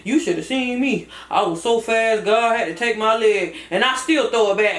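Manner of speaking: Cousin Fat. Acted. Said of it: "Cousin Fat".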